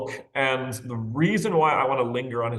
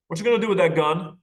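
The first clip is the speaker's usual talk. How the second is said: put-on child's question; 7 semitones higher, 5 dB louder, faster than usual. A narrator's reading. Boy presses the gunman.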